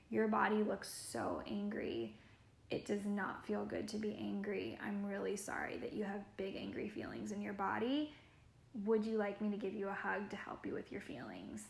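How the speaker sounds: put-on soft, gentle voice calming an angry boy; soothing. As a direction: talk him down softly, close and tender. Soothing an angry child, kneeling.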